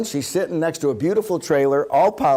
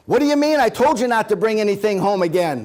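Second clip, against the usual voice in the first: loud, higher, scolding wife voice; nagging wife; 5 semitones higher, 4 dB louder than usual. Retold or imitated. Wife scolding husband over a purchase, loud and nagging. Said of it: "she goes".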